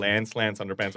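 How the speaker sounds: "Lance, Lance Underpants" said in an American accent, so that "Lance" rhymes with "pants"; American accent, "Lance" with a flat a like "pants". Shown as a demonstration. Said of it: "except in the American accent".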